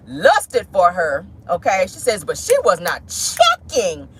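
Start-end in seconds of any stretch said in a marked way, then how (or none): 2.2-4.1 lightly voiced Melody, slow and drawn out; a hint of Melody delivering her favourite phrase. Vlogger quoting Angie in her Melody voice, slow. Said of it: "I had to say it in my Melody voice".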